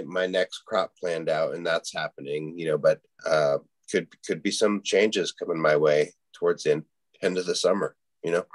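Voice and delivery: talking through hiccups; words broken by hiccups. Real, not acted. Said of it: "Jeez, I sound like a drunk. I've just got these hiccups".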